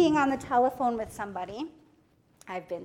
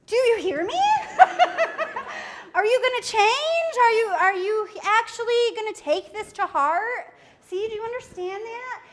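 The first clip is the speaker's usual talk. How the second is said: mock stern parent; 7 semitones higher, 8 dB louder than usual. Parent pressing the child, laughing.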